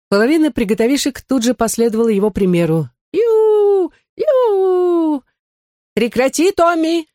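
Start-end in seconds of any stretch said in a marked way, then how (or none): 3.1-5.2 chimp whoops. Acted. Child whooping like a chimp in class. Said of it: "вопя, как шимпанзе". 5.9-7.1 high, shrill-pitched shriek of a teacher. Acted. Teacher shrieking at Tommy to stop. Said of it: "взвизгнула миссис Матфорд".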